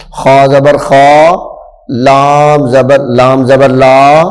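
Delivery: slow, lightly mimicked drawn-out خا; a hint of a child spelling wrongly; imitating children's wrong reading. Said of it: "بچے توڑ کرتے ہیں تو کیا پڑھتے ہیں؟". (بچوں کی غلط نقل)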